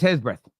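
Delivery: "breadth" with the D left silent, like "breth". Shown as a demonstration. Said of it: "so the D is silent".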